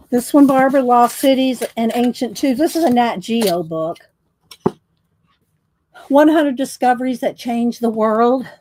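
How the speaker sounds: breathless after rushing back; out of breath. Real, not acted. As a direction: talk while catching your breath. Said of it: "All right, I'm out of breath".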